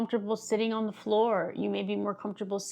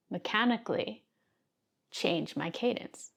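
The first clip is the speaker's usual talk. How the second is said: changed cadence; 4 dB quieter than usual. Shown as a demonstration. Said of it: "like I just did".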